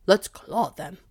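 loud gruff growl. Acted. Dog growls for revenge on the thieves, loud. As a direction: snarl it out for revenge. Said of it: "growled Blackfoot".

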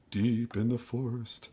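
slow, hushed spooky narrator; scary storytelling voice. Shown as a demonstration. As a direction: draw it out like a scary tale. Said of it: "either scary storytelling voice".

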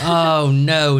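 drawn-out mock dismay; lightly hammed-up "oh no" of a fake singer. Sister plays singer after the crash, mock dismay. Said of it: "She's like".

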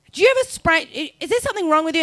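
high, fast indignant questioning; mock furious. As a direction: imitate an outraged gate agent. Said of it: "She was furious".

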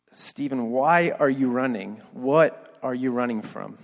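slow, pleading mock yell; retold yell. Confronting Stephen after catching up to him, retold yell. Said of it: "I yell for the once and only time".

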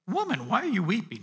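kind rebuke. Acted. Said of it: "in a very kind, rebuking way".

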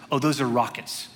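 calm, understated reply from the driver. Retold or imitated. Driver answering a worried passenger about rockets, very calmly. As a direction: say it evenly, no alarm at all. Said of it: "No joke, very calmly".

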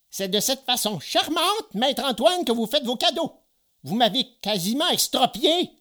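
high-pitched sarcastic grievance; pained reproach. Acted. Geppetto scolds the carpenter for hurting him, pained reproach. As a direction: complain bitterly in a high old man's voice.

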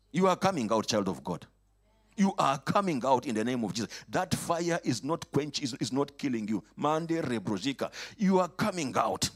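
loud, fast declaration; preaching at full force. Acted. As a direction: shout it over the church.

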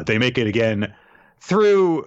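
normal talking voice

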